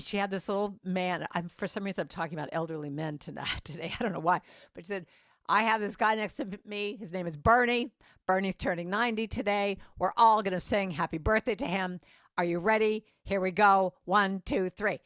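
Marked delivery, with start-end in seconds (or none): 5.5-15.0 loud, imitated flight attendant announcement; rally the whole cabin to join in. Flight attendant getting passengers to sing for Bernie, rallying.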